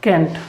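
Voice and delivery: can't said as "kent"; can't with a short e vowel; saying can't. Shown as a demonstration. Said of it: "आप क्या बोलते हैं इसे?".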